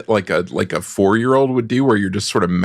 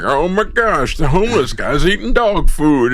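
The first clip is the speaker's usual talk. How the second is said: shocked gasp; 7 semitones higher than usual. Retold or imitated. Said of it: "Was like".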